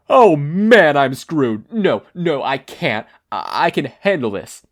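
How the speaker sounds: loud, high panic, then forcing himself calm; a frantic wail of dread; villain cracking under panic, loud and high; panicked outburst. Acted.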